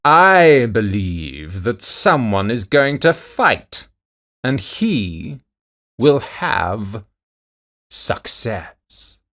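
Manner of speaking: loud, slow giantess, trailing off. A narrator's reading. Giantess sensing a fight coming, loud then fading. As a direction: boom it slowly, then let it fade to a breath. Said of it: "Then the giantess said".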